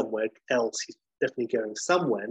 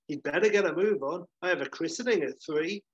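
lightly voiced priest, higher pitch; impatient priest; 5 semitones higher than usual. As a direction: mildly hurry the couple along. Impatient priest hurries late wedding.

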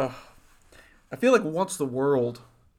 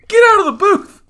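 high, loud furious yell; angry shout; 13 dB louder than usual. Pretend. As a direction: bark the order at the caller. Yelling caller out of booth.

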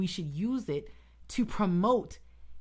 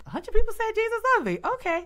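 high and loud, a hammed-up unimpressed voice; mock unimpressed listener; 8 dB louder than usual. Mocking a person told Jesus loves them a hundred times, in a high unimpressed voice. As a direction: play someone who has heard it all before.

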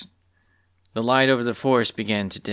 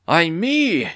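creature voice; 7 semitones higher, 4 dB louder than usual. Acted. Newly talking beast cries out.

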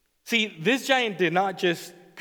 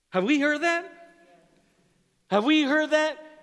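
emphatic question; 9 semitones higher than usual. Real, not acted. Preacher asks congregation, repeated.

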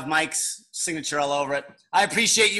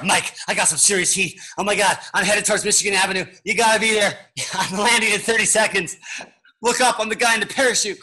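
excited; 5 semitones higher than usual. Pretend. Pretend phone call mid-parachute escape.

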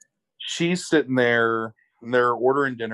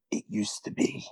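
hushed mock-brooding actor line; awkward indie acting; 8 dB quieter than usual. Host mimicking the actor's awkward confession in bed, awkward indie acting. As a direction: imitate self-serious indie acting, very soft. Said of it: "awkward-ass indie James Franco acting".

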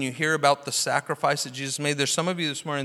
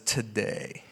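gentle Jesus; 4 semitones lower, much slower than usual. Retold or imitated. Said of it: "Jesus looks at the guy and says".

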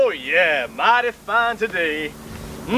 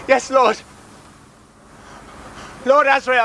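crying out to god; 3 semitones higher than usual. Acted. Cultist cries to his god.

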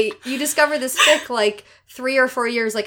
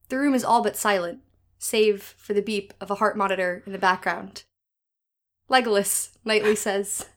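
dramatic reading; 3 semitones lower, 4 dB quieter than usual. Shown as a demonstration. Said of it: "for summary".

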